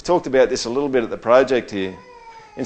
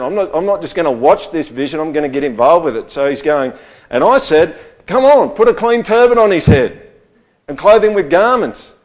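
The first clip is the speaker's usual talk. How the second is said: higher and louder, eager to jump in; excited prophet calling out the command; excited Zechariah; 4 semitones higher, 6 dB louder than usual. Retold or imitated. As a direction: voice Zechariah getting swept up, calling out. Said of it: "He's getting excited about it".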